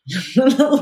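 short laugh that rises high; bright laugh. Real, not acted. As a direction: laugh out loud at yourself. Laughs at her own story.

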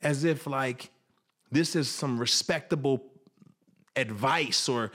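can't believe what he's hearing; incredulous. Retold or imitated. Son protesting to the father who abandoned him, incredulous. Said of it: "And I sat there and I was like".

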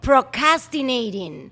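"Procrastinating" drawn out slowly, syllable by syllable; slow, deliberate model of "Procrastinating"; careful pronunciation model. Shown as a demonstration. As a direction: teach "Procrastinating" slowly with a strong CAS. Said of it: "you are not pronouncing it the correct way".

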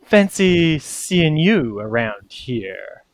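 slow, drawn-out mock greeting; lightly voiced rival, words drawn out; mushroom rival. Mushroom Portobello greets rival Jisan on the boat, slow and arch. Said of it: "playing his lute, going".

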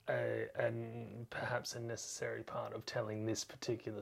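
unvoiced whisper. Real, not acted. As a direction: drop to a whisper mid-sentence. Drops to whisper.

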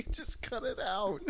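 whispered through a giggle; laughing whisper. Real, not acted. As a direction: breathe it out while laughing.

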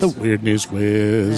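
game show echo. Pretend. Echoing the game title.

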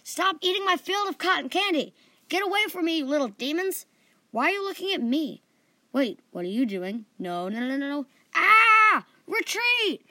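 high, loud panicked yelling; shrieking in a nightmare panic; screaming. A narrator's reading. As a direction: yell frantically, building to a full scream.

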